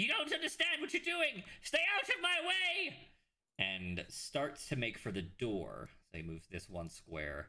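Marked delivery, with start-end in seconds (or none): 0.0-3.0 shrill, very high-pitched yell. Game master voicing a character who spots the players and yells. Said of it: "he yells".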